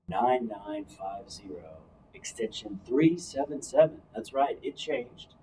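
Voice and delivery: low, even announcer read. Pretend. Co-host giving listeners the coaching phone line, announcer voice. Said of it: "that's my announcer voice".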